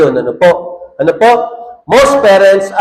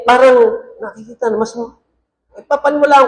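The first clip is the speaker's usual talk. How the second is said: choked up; 4 semitones higher than usual. Real, not acted. Pastor to the congregation, briefly choking up. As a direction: voice catching with real emotion. Pastor moved while speaking of children.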